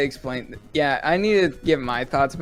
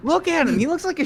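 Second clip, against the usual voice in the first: excited; 13 semitones higher, much faster than usual. Real, not acted. Laughing disbelief at a character.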